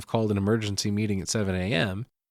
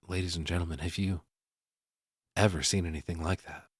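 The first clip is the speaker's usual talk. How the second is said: retold host address; 4 semitones lower, 6 dB quieter, faster than usual. Host's hushed address retold.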